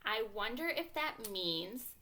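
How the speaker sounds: slow, pondering "hmm"; acted wondering; thinking voice musing. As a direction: puzzle it out aloud. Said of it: "my thinking voice is telling me".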